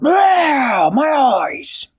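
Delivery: high, loud pained cry; blinded, yell it out; troll in pain. Acted. Troll blinded by the camera flash, loud pained cry. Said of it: "The troll went".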